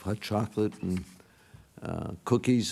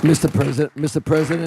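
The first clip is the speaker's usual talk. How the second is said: calling out; 7 semitones higher, 9 dB louder, faster than usual. Real, not acted. Calling for the chair's attention.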